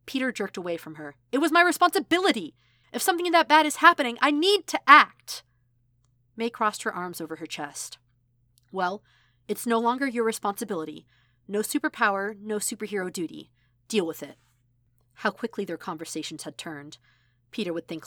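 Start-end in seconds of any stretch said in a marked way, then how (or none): 1.3-5.4 much higher, much louder yelling; furious shout. Acted. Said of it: "From hugs to shouting". 8.7-14.4 louder and higher, firm and cutting; angry retort. Acted. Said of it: "From hugs to shouting".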